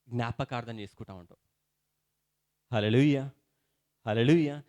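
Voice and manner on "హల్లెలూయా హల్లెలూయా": a loud ringing hallelujah; shouted hallelujah. Real, not acted. Preacher shouting praise to the congregation, loud call. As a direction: call it out to the church.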